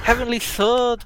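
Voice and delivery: light northern English Yorkshire accent. Shown as a demonstration. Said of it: "like, a Yorkshire accent".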